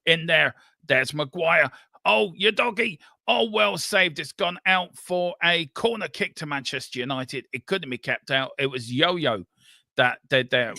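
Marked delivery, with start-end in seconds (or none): 2.0-6.5 excited commentary. Real, not acted. Near goal, commentator rises.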